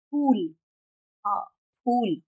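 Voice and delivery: फूल with lips closed, then a puff; Hindi ph. Shown as a demonstration. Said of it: "ये है हिंदी वाला". (फूल में होंठ वाला हिंदी फ)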